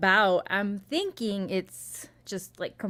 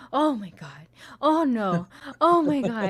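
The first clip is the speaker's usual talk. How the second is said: horrified moviegoer; 3 semitones higher, 5 dB louder than usual. Retold or imitated. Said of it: "hear someone being like".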